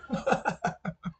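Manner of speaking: breathy whispered villain cackle; a hushed evil chuckle; mustache twirling villain. Pretend. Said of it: "Still working on my villain laugh".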